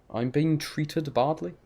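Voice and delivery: treated said slowly, full ee and -ed, questioning; testing the proper form, unconvinced; trying treated. Shown as a demonstration. Streamer testing chat's version, slow and doubtful. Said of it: "Just say it treated".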